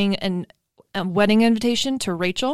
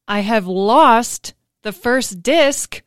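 mock tragic; 6 dB louder, slower than usual. Dramatic confession of loss.

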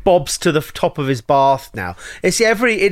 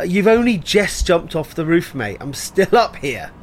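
put-on British accent; 2 semitones higher than usual. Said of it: "he goes".

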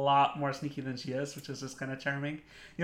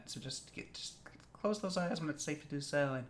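soft, sultry, sleepy murmur; 6 dB quieter than usual. Pretend. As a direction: lull them with a sultry hush. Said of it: "sultry voice".

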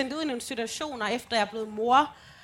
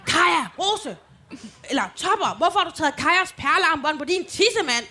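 scolding mom; 4 semitones higher, 5 dB louder than usual. Retold or imitated. Mother scolding child.

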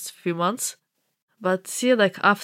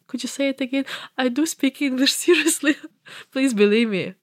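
pleading, higher, a bit frantic; anxious pleading; 6 semitones higher than usual. Retold or imitated. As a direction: beg them to believe you. Pleading on a bad interview call.

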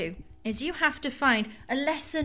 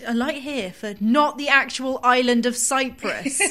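slow, formal announcement with a laugh; tube lady voice; 5 dB louder than usual. Pretend. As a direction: announce it like the Underground, giggling. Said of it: "my tube lady voice".

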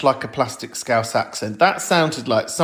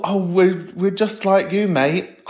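higher, blokey "just like you, mate"; mocking impression; 5 semitones higher, slower than usual. Mimicking boring gays, lightly mocking bloke voice. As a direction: parody a bland gay bloke.

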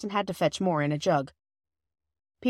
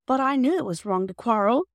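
tearful, higher and louder plea; in tears; 6 semitones higher, 4 dB louder than usual. A narrator's reading. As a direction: near tears, pleading. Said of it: "said Bobby in tears".

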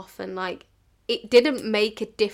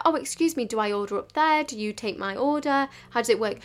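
slightly lifted, polite asking voice; polite enquiry; 2 semitones higher than usual. Shown as a demonstration. Barista showing customers how to ask, politely enquiring. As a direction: model a courteous customer's question. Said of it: "be polite".

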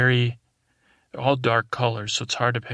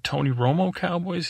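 higher-pitched, disbelieving query; incredulous question; 7 semitones higher than usual. Retold or imitated. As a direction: retell a baffled double-check, pitched up. Acted puzzled follow-up question.

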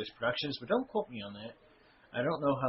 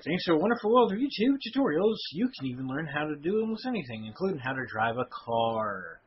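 announcer voice; 3 semitones higher than usual. Retold or imitated. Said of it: "It's like".

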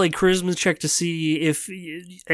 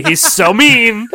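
laughing; 7 semitones higher, 6 dB louder, slower than usual. Real, not acted. Laughing about cat.

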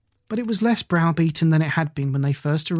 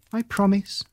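squeaked; 4 semitones higher than usual. Acted. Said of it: "she squeaked".

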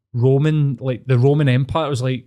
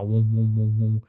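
imitated vibration hum. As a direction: copy the drone you heard on the trip. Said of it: "vibration noise".

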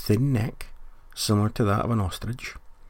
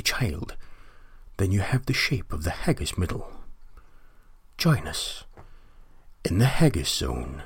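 put-on Uncle Rod's accent. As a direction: drag it out in an old Scottish uncle's accent. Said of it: "whose accent I will now try and do".

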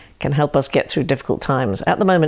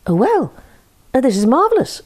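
mock delight; 7 semitones higher than usual. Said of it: "said the chicken".

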